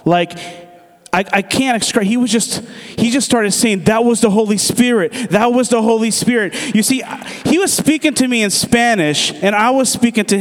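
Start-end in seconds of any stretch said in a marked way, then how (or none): 3.9-6.5 higher, repeated exclamation of amazement; imitating awe. Driver realising a miracle happened, retold awe. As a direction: insist on it, amazed, pitch lifted. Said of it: "he was in awe".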